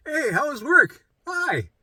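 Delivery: high, bright put-on cheer; mock breezy hello to family; fake casual greeting. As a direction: hide the breakdown with a chirpy hello. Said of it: "you're like".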